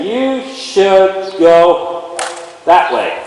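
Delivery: drawn-out command. Shown as a demonstration. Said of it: "I'm gonna pick up this energy".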